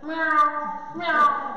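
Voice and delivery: posh cat impression, long mews; throaty, genteel cat mews; cat meow. Shown as a demonstration. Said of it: "She's very posh".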